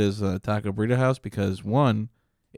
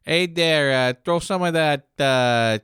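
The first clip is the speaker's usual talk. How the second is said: higher put-on ordering voice; customer voice; 4 semitones higher than usual. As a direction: play a customer calling out an order. Playing a customer ordering tacos.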